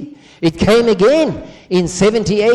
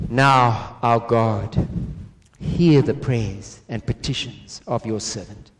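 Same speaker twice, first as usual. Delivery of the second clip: solemn prayer reading; 2 semitones lower than usual. Acted. Reads Daniel's prayer.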